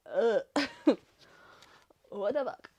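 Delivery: hammed-up waking-up groan; acted startled groan. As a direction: wake up groaning in mock disbelief. Acts out character waking up bewildered.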